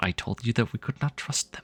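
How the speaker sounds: hushed, whispered muttered aside to oneself. Voicing a character in the story as she mutters to herself. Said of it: "she mutters to herself".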